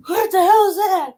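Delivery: high, loud startled cat voice; mock shock. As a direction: act out a cat appalled by what it hears. Retelling cat's shock at a hiss.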